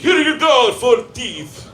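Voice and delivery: high, loud call; exaggerated shouted handover; doctor's mock shout. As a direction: imitate the vet announcing it at high pitch. Doctor handing back teeth, acted.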